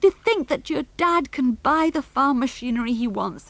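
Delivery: high, loud tearful outpouring; crying for joy. A narrator's reading. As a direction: sob out your joy and relief. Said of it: "began to cry".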